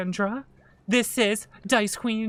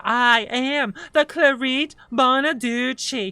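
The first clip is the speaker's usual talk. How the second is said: slow, lightly voiced Jersey witch curse; a hint of a mobster witch, drawn out; Jersey villain voice; 3 dB louder, slower than usual. Game master tries combining voices for players, slow mock Jersey curse. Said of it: "I get into my Jersey voice like this".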